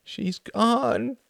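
put-on high, distressed little-girl cry; child's wail. A narrator's reading. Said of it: "After a moment she wailed".

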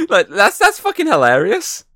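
high, loud and slow through laughter; real amusement. Real, not acted. Host tickled by the show's voice-change joke, laughing loudly. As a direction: crack up while saying it.

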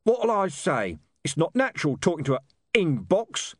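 lightly growled character voice; Sister Jennifer. Acted. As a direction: grumble it with a damp growl. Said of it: "damp growl of Sister Jennifer".

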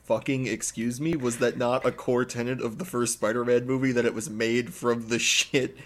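incredulous, rising rant; indignant outburst. Real, not acted. Podcast co-host objecting to a plot hole, indignant.

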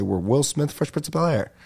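quick, run-together phrase; said fast. Shown as a demonstration. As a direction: blurt the whole name out fast. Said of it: "You see how fast I say it?".

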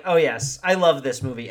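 loud, gleeful fan gush; delighted gushing. Retold or imitated. Fan gushing loudly to a friend about the movie. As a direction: gush over a favorite film. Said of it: "That's when I was like".

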